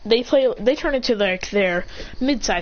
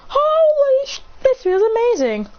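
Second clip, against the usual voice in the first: much higher and louder, overwhelmed cry; ecstatic rush; 13 semitones higher, 4 dB louder, slower than usual. Acted. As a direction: feel power flooding in. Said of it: "gets a surge of power".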